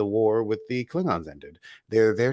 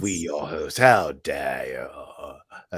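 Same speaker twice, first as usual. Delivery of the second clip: mock outrage; 7 semitones lower, much slower than usual.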